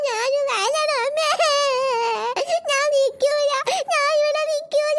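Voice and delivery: slow whimpering refusal; crying child. Acted. Little girl crying to her mother that she won't stay behind. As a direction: wail that you will not stay.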